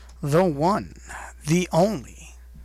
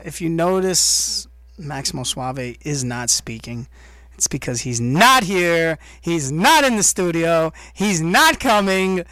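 ordinary delivery

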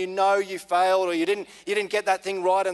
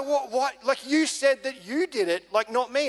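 lightly acted higher-pitched astonishment; floored disbelief; 5 semitones higher than usual. Mate questioning who took the blame, floored disbelief. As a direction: retell a mate's baffled questioning, pitched up. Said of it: "he was floored".

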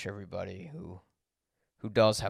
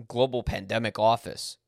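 "global" hit harder and louder than the words around it; stress on global; 5 dB louder than usual. Real, not acted. Podcaster stressing to listeners that the pandemic was global: punch "global". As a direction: lean on "global" to make the point. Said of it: "I emphasize the word global".

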